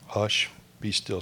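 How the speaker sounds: calm it like a sleeping sea; gentle hush. Shown as a demonstration. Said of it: "a sense of calm here".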